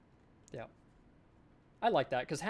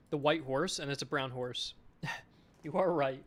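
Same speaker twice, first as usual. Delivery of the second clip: talking through a mouthful; words round a bite of food; chewing while talking. Real, not acted. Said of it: "Am I eating something?".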